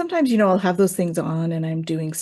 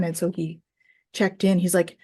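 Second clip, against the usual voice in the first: usual speaking voice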